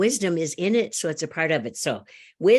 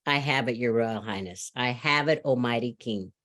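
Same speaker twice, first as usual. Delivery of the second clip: lower, softer, unhurried advisor; calm slow advisor; 5 semitones lower, 3 dB quieter than usual. Acted. Third advisor calmly answering the king, lower and soft. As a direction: say it quietly, lightly voiced sage. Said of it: "the third advisor finally says".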